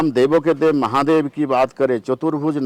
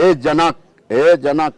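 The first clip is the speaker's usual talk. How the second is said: loud, indignant challenge; angry Lakshman; 3 semitones higher, 6 dB louder, much slower than usual. Retold or imitated. Lakshman challenging King Janak before the assembly, angry. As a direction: call him out in mock fury. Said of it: "Lakshman इतनी गुस्से हो गया".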